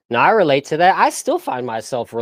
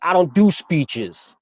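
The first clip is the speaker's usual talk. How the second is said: slow, drawn-out refusal, a little higher; stubborn refusal; 4 semitones higher, much slower than usual. Retold or imitated. Student refusing the teacher's speech call, stubborn. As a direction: dig in and stretch the words out. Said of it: "I'm like".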